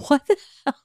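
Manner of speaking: irritated mock rant at mom; retold angry outburst. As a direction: replay the moment you lost patience. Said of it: "And I'm getting pissed".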